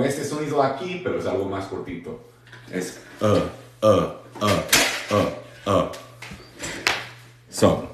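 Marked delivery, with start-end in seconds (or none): 3.9-5.9 short, weak uh, uh repeated; schwa demo. Shown as a demonstration. Teacher repeats the schwa sound for the class, short. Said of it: "la schwa".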